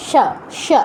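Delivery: সা as "sha", tongue at the palate; palatal sha. Shown as a demonstration. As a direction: say সা with a palatal sh and short open a. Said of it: "তালব্য স্বর উচ্চারণটা মূলত এটাই".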